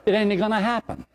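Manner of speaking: high, laughing punchline. Real, not acted. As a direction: laugh it out as a joke. Teasing about chatty choir women.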